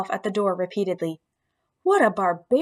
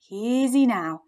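soothing squeak; much slower than usual. Acted. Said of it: "I squeaked soothingly at the beast".

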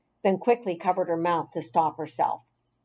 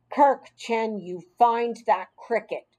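stern tone; 2 semitones higher than usual. Acted. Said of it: "in a very stern tone of voice".

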